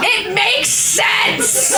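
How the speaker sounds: high, slow, laughing protest. Real, not acted. Reader defending the pun, laughing. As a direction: insist through giggles.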